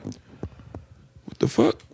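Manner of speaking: slow, breathless whisper of disbelief; whispered what the fuck. Retold or imitated. Stoned friend whispering to his buddies, stunned. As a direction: hush it out, dazed and slow. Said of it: "I'm like".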